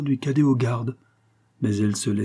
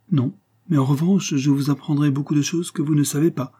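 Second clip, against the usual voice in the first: higher-pitched masked gallant, teasing; lightly voiced cadet, playfully secretive; intriguing cadet; 6 semitones higher, 3 dB louder than usual. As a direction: play a mysterious young guardsman, voice lifted.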